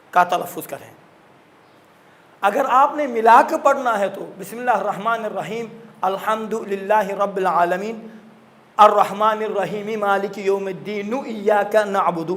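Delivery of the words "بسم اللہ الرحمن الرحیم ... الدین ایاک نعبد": الرحیم read straight into مالک with the vowel sounded, no pause; joined recitation. Shown as a demonstration. Teacher showing parents how to recite joined verses, linked. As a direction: run the verses together smoothly, slightly slow. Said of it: "اس طرح سے ملا کے پڑھیے".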